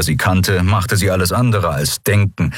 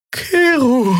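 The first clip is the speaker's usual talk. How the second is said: higher, urgent cry of his name; alarmed call. Acted. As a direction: cry out to stop him. Xea cries out as he undresses.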